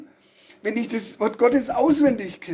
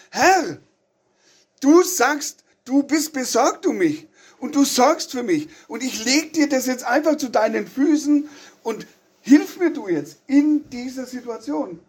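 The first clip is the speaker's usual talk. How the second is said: pleading prayer; 4 semitones higher than usual. Retold or imitated. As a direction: cry out to Jesus for help, a touch of tears. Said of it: "und kann sagen".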